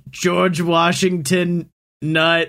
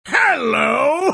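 silly high hello; 7 semitones higher than usual. Acted. Mock greeting in put-on voice.

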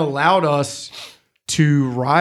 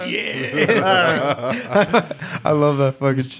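Matt Hardy; much slower than usual. Retold or imitated. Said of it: "And then Matt Hardy's like".

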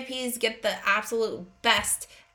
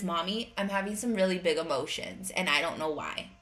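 put-on lower, softer retelling of a child's words; daughter confiding; 5 semitones lower, 3 dB quieter than usual. Daughter telling mommy about her big emotions, subdued imitation. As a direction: quietly voice a child owning up to big feelings.

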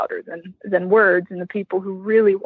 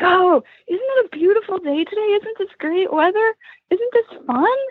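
high cheerful chatter; 10 semitones higher than usual. Retold or imitated. Voicing Stefan's chatty cheer.

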